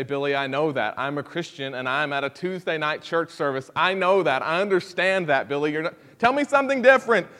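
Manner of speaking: mild mock know-it-all; mock impatient listener. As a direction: play the bored believer brushing it off. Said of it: "And you would say".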